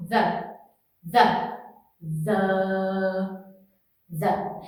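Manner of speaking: "the" with the tongue between the teeth, no tension; easy, relaxed "the", said over and over; soft th demo. Shown as a demonstration. Teacher repeating "the" softly for a pronunciation drill. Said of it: "o que você tem que pensar é isso aqui".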